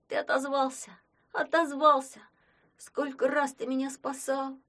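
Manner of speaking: high joyful cry. A narrator's reading. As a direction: burst with relief and joy. Boy overjoyed at horse.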